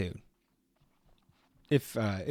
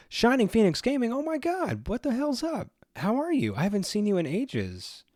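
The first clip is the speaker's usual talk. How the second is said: much higher, loud squeal of delight; excited greeting; 11 semitones higher, 3 dB louder than usual. Real, not acted. Streamer greets a returning viewer, delighted high squeal.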